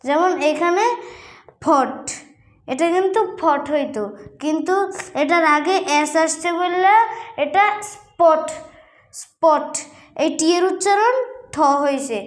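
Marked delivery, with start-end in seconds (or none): 1.6-2.0 "ফট" with a puff of air on the first sound; aspirated p. Shown as a demonstration. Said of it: "ফ উচ্চারণ করব না". 7.9-9.7 "স্পট" with a plain p after s, no puff; careful model "স্পট", unaspirated p. Shown as a demonstration. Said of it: "প হইছে".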